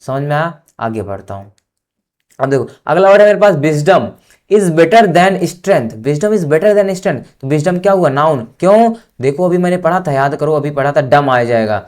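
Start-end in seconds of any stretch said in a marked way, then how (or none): 3.6-7.4 very slow, word by word, louder; slow dictation to a class. Shown as a demonstration. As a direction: read it for students to copy. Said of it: "dictating an example sentence slowly".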